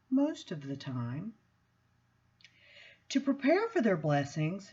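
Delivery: measured, expressive reading-aloud voice; book reading. Acted. Reading the chapter to the gathered audience, measured and expressive. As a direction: read the chapter like a sermon-tinged story.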